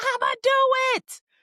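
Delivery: very high, shrill, loud shouted outburst, acted out. Retelling waking from a dream yelling: imitating her own yell. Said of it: "and I was yelling".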